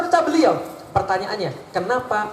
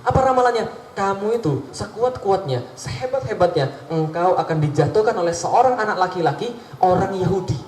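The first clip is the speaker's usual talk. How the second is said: sorcerer's prophecy; 3 semitones lower than usual. Pretend. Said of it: "kalau kata tukang sihir ya".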